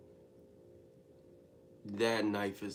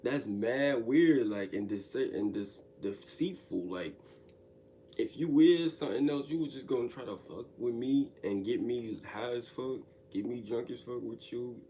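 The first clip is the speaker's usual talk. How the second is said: retold yelling; 4 dB louder than usual. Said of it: "I'm really yelling in my room".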